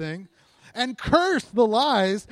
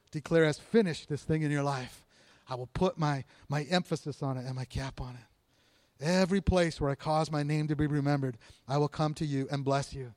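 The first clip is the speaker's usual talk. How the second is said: low, softened scripture delivery; God's quoted promise; 5 semitones lower, 5 dB quieter than usual. Acted. Preacher voices God's promise to the congregation, low and hushed. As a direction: drop low and quiet for a solemn promise.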